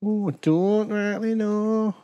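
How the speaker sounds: Northern-sounding. Real, not acted. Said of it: "you know who sounds like that is Boof".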